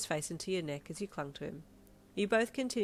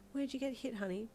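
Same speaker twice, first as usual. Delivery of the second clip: worried mum; 7 semitones higher than usual. Acted.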